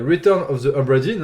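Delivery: game title in a self-mocking English accent. Shown as a demonstration. Vlogger reads an English game title aloud, self-mocking English accent. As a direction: say the English title with a put-on English accent, half joking. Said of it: "avec mon super accent anglais".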